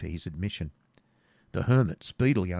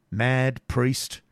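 moderately raised call from outside; 4 semitones higher, 4 dB louder than usual. Acted. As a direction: call through the door, a little high. Voice calling from outside door.

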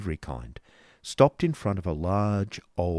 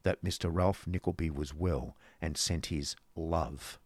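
slow, weighted stress on "love"; "love" set apart and drawn out; emphasis on last word; 2 semitones lower, 5 dB quieter than usual. A narrator's reading. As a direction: hold back, then lean on "love". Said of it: "strong emphasis on the last word".

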